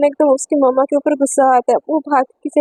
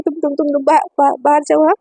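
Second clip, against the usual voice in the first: nervous stammer. Acted. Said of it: "थोड़ी सी nervous हो जाती है".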